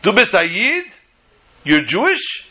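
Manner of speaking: screamed question. Retold or imitated. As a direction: shout it at the boy in disbelief. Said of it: "screams to him".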